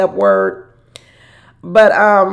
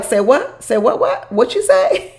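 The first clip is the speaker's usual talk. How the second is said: mock shocked disbelief; 5 semitones higher, slower than usual. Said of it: "Niles was like".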